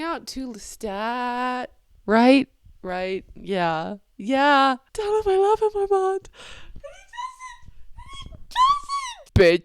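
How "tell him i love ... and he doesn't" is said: very high, squeaky wail; hammed-up tearful squeal, far above normal; mock anguish. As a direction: wail it like an overwrought fan. Anguished reaction to Armand's scene.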